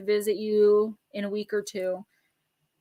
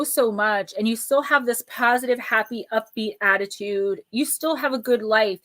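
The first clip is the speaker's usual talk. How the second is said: ordinary talk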